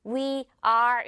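"We are" as two stiff, separate words; robot-like "We", then "are"; robotic full form. Shown as a demonstration. Teacher warns learners off this way, robotic. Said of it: "이렇게 또 로봇처럼 하지 말고요".

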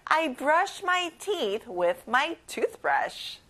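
put-on very slow, even read for kids to join; slow choral read. Shown as a demonstration. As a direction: lead the class slowly. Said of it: "우리 친구들 같이 말해볼게요".

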